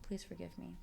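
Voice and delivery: soft, near-whispered plea; retold whisper. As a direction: whisper it over a sleeping baby. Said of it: "I just whisper".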